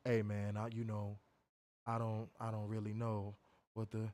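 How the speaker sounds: very soft, low, meek mumble; mock-meek voice, low and halting; docile imitation. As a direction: imitate a timid, docile man, hushed and hesitant. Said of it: "He was real docile".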